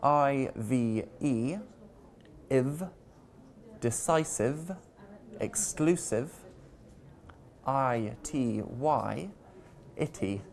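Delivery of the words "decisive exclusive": "decisive" and "exclusive", stressed on CI and CLU; stress before the suffix. Shown as a demonstration. Teacher demonstrating the rule, "decisive" and "exclusive" stressed before the ending. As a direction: put the weight just before "ive" in "decisive" and "exclusive". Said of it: "stress the syllable before the ending".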